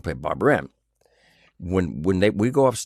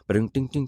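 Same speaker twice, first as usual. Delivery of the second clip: imitating piano; 5 semitones higher than usual. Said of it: "playing piano".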